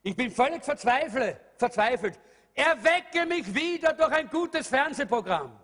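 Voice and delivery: jokey wrong version of the psalm, rising up on "Erwecke"; a playful send-up of the verse; mock misquote. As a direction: play the wrong quote for a laugh. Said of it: "David sagte in den Psalmen einmal".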